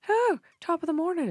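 high, cheery put-on British greeting that sounds Irish; bad British accent. Prankster greets coworker folding sweaters, in a dubious British accent. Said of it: "a British accent".

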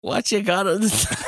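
put-on high-pitched, slow stab at a Liverpool accent; attempted Liverpool accent. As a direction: have a hammed-up go at Liverpudlian, about to crack up. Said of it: "in, in a Liverpool accent".

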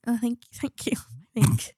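husky whisper with a cold. Real, not acted. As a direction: breathe it out in a whisper.

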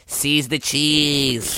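slow, drawn-out dumb catchphrase voice. Acted. Host quoting own catchphrase to sell t-shirts, dumb voice. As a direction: stretch it out like a silly slogan. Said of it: "quote yourself in a dumb voice".

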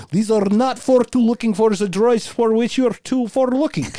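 high, loud, scrambled mock quote; garbled stormtrooper. Host mocking a garbled version of the Jedi line. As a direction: trip over every word on purpose. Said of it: "if Checkmark was going".

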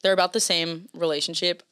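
slipped into a British accent, whispered; a stray British accent on relationship; accidental British accent. Real, not acted. Accidental British accent while talking about the songs. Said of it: "I don't know what accent I just said that in".

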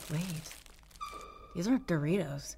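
normal talking voice

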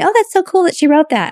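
high, gushing imitation of other readers; mock gushing fan. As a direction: gush like an impressed fan. Mimicking what other people say.

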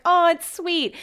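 high cooing mock of the commenters; sweet-voiced mimic of followers; mocking others. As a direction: coo it like the crowd gushing.

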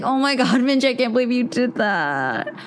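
cringing at your own email; embarrassed disbelief. Retold or imitated. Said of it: "I was like".

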